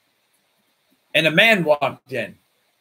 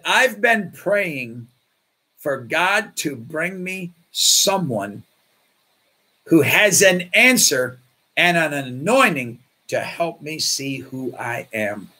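very slow, hushed and heartfelt; slow earnest confession; 3 semitones lower, slower than usual. Retold or imitated. The Marine confiding to the pastor, slow and hushed. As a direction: let each phrase come slowly, moved.

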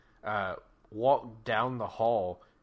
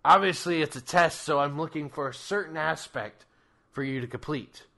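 raised booming deity voice; loud commanding Krampus; 4 semitones higher, 8 dB louder than usual. Acted.

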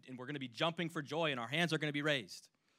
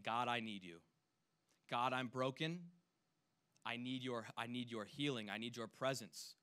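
soft, lower, pleading voice; mock pleading prayer; 3 semitones lower, 4 dB quieter than usual. Showing the congregation what crying out sounds like, softly pleading. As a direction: plead quietly as someone broken. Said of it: "Crying out to God is saying".

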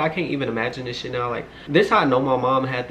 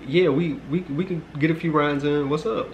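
higher-pitched imitation of a brother; lightly voiced brother, pitched up; imitating brother; 5 semitones higher than usual. Brother inviting the visitor to play, in a higher voice. Voicing her brother's friendly reply.

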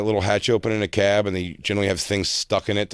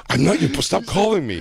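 laughing; 5 semitones higher than usual. Acted. Acted boyfriend quote, laughing.

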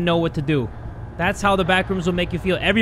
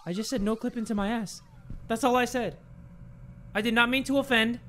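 sheepish backpedal; 4 semitones higher, 9 dB quieter than usual. Pretend. Backpedals meekly after boast.

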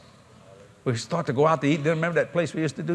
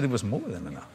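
voice of God; 7 semitones lower, 7 dB quieter than usual. Retold or imitated. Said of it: "He said".

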